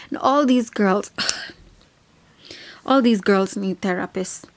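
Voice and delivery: sighing whisper, half to herself; a weary whisper under the breath; whispered aside. Real, not acted. Exasperated aside about the girls.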